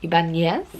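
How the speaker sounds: Ibanez with a Spanish ny, questioning; attempted Mexican accent. Shown as a demonstration. Reader retrying an author's name, awkward Mexican accent on Ibanez. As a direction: try Ibanez as i-ban-YES in a tentative Mexican accent. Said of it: "I'm putting it on so badly".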